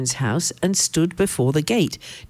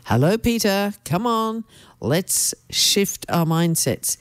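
a light, higher, gentle coaxing God; 3 semitones higher than usual. Acted. God gently coaxing Peter to change his mind, lightly voiced. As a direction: nudge him along kindly, slowing at the end.

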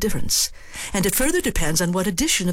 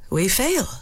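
pragmatic; 4 semitones higher than usual. Shown as a demonstration. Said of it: "Ah, the pragmatist".

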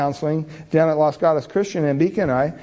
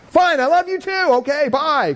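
much higher, retold grudging goodbye; grudging reply; 9 semitones higher than usual. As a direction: force the words out and hang up fast. Grudgingly saying love you back.

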